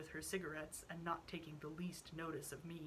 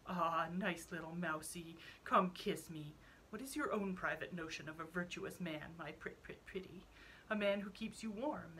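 cooing to a pet. Acted. Count coos to his mouse.

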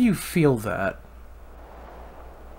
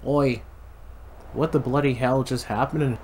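put-on butchered Irish accent. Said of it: "the most butchered Irish accent".

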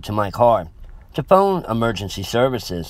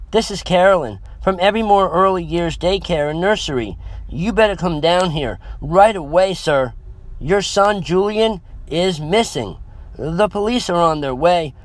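higher-pitched, worried nursery caller; 7 semitones higher than usual. A narrator's reading. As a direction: break bad news urgently, pitched up. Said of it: "The worried tone in the woman's voice".

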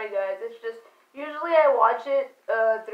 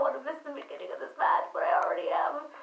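whisper; 9 dB quieter, faster than usual. Real, not acted. Stressed streamer mutters aside.

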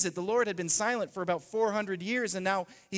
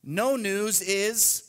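slow, weighty trailing phrase; unfinished phrase; 3 semitones higher, 4 dB louder, much slower than usual. Shown as a demonstration. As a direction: leave it hanging slowly. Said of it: "It goes like this".

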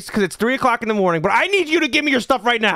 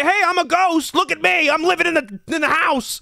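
higher, sarcastic announcing; mocking ghost quote; 5 semitones higher than usual. Father mocking his son's ghost claim, higher sarcastic imitation. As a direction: lightly put on a silly chatty ghost. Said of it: "Did the ghost come up to the camera and say".

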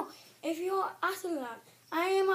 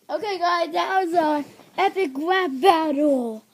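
loud announcement; 4 semitones lower, 7 dB louder than usual. Real, not acted. Announcing rap battle to viewers.

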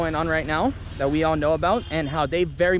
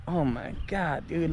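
softer and slow, shocked under the breath; stunned disbelief; 2 semitones lower, 6 dB quieter, slower than usual. Retold or imitated. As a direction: let it out slowly, in disbelief. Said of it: "And I'm like".

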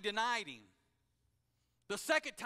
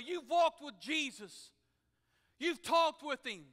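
condemning inner voice; 5 semitones higher, 3 dB louder than usual. Acted. Guilt voice condemns Peter.

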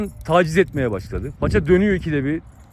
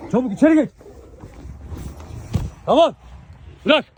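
urgent shouted commands; 8 semitones higher than usual. Real, not acted. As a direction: call sharply to drive dogs in. Ordering dogs inside during fight. (yüksek sesle acele emir)

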